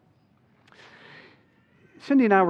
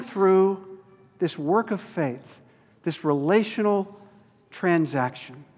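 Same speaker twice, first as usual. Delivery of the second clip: slow emphatic preaching; slower than usual. Acted.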